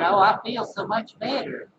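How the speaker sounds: imitated Southern woman's accent. Quoting the local woman's relief, in a put-on Southern accent. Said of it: "like Southern people talk".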